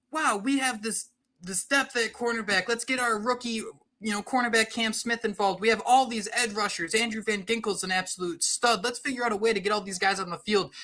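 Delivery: nasal mock Vic Fangio impression; nasally voice. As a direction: pinch it through the nose. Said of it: "That was a perfect nasally voice".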